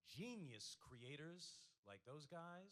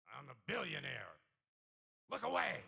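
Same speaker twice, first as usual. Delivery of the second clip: snooty billionaire; 3 semitones higher, 14 dB louder than usual. Retold or imitated. Mocking an arrogant billionaire.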